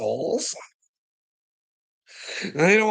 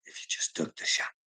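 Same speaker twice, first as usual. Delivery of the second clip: whisper; 8 dB quieter than usual. Retold or imitated. Quoting doctor's pressure.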